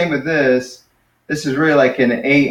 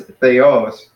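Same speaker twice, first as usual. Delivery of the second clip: "theos" slowly, weight on OS; last-syllable stress; 5 dB louder than usual. Shown as a demonstration. Teacher modelling the correct accent, end-stressed. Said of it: "but it's, no".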